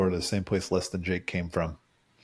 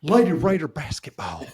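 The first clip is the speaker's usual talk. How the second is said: higher, louder mock West Texas accent; hammed-up Lubbock commercial twang; 7 semitones higher, 5 dB louder than usual. Host mimicking old Lubbock basketball commercials, broad Texas accent. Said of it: "go to Lubbock. They have a very definite".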